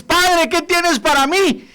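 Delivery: high, slow plea to the Father; pleading prayer. Acted. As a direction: ask God like a hopeful child. Praying voice in sermon.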